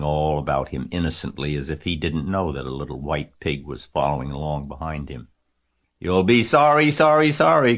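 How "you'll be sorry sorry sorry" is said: high, loud warning; goose calling out. A narrator's reading. Goose warns Wilbur as he follows pail, calling. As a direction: call the warning after him, pitched up. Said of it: "called the goose".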